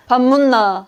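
lightly mimicked Gyeongsang question; Gyeongsang accent. Shown as a demonstration. Guest mimicking Gyeongsang dialect for the host, Gyeongsang accent. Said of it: "그 경상도는".

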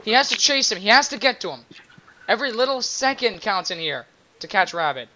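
wrestling commentator tracking a chase; live play-by-play. Pretend. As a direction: call each moment as if it counts. Play-by-play of game.

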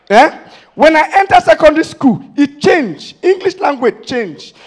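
loud, high, building up; rising indignant outburst; excited rant. Real, not acted. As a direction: push it like a growing complaint.

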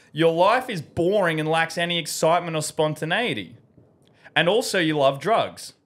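smooth commercial voice-over; ad read. Acted. Host reading a fake sponsor spot to viewers, in an ad voice. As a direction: sell it like a pharmacy ad.

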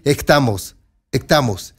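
put-on "Estamos" with the s breathed out like "ektamos", a foreign accent; a hint of a foreign accent on "estamos", the s turned breathy; mimicked foreign accent. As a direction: repeat "estamos" with a rough, aspirated s as the foreign caller does. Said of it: "Y lo dice así".

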